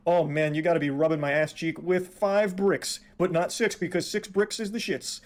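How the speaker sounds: mock-excited random-comedy bit; XD-random gamer shtick. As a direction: ham up silly gamer commentary. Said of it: "like, X D random shit".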